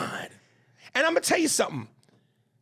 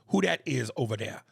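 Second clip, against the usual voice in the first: Southern phrasing. Shown as a demonstration. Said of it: "we say".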